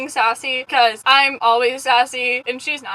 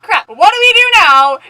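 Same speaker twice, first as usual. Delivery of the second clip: higher, loud alarmed outburst; mock panic; 5 semitones higher, 10 dB louder than usual. Pranksters realise she is already listening, mock panic. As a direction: replay being nearly caught, hammed-up. Acts panic at nearly being caught.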